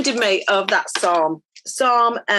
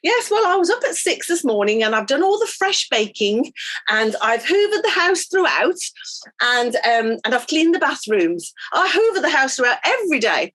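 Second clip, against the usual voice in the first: smug neighbour; 4 semitones higher than usual. Retold or imitated. Smug neighbour boasting about housework.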